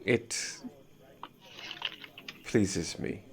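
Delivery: soft, half-whispered reply; a quiet ancient creature speaking; hushed dragon voice. Acted. GM voicing the dragon.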